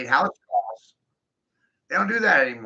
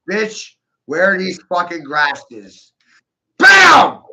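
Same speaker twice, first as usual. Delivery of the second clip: mock shout; 3 semitones higher, 11 dB louder, much slower than usual. Acted beating into submission.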